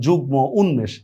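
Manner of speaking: যুগ্ম, উন্মেষ as "jugmo, unmesh"; m fully pronounced. Shown as a demonstration. Teacher recaps exceptions, যুগ্ম and উন্মেষ with m sounded. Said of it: "ময়ের উচ্চারণ হয়".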